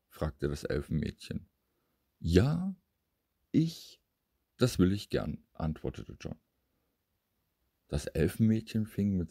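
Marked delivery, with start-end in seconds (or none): 2.2-5.4 put-on eager boy. A narrator's reading. John agreeing to play with the elf girl, eager. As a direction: jump at the offer like a delighted child.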